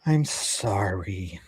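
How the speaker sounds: slow, soft, mumbled sorry; mumbled apology. Retold or imitated. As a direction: mumble it, eyes down. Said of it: "She's just like".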